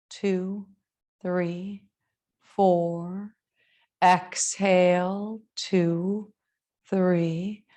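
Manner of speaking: measured yoga teacher voice, long pauses; spacious, evenly paced breathing guidance; guided meditation. Acted. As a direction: guide them into the breath, unhurried.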